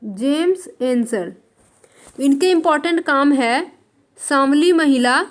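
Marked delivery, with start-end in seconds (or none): 0.0-1.3 name said again, slow and deliberate; slow repeat for notes. Shown as a demonstration. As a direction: repeat slowly so students can write it. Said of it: "repeated for notes".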